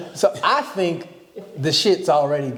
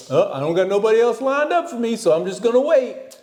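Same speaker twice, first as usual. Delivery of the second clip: mock meek voice; 8 semitones higher than usual. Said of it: "you're not finna be like".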